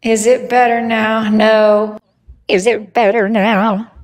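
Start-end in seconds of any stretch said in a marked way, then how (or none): 2.5-3.9 steadily wobbling vibrato on every word; vibrato effect. Real, not acted. Streamer testing the voice effect, wobbly vibrato. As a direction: speak through a warbling voice effect. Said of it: "than your vibrato".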